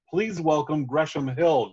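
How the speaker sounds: slow, grand emcee welcome; slow announcer voice. Pretend. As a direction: stretch the name out for applause. Closing the mock intro.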